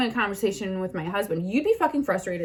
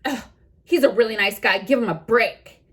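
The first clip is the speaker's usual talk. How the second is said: snotty scolding. Retold or imitated. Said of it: "she says".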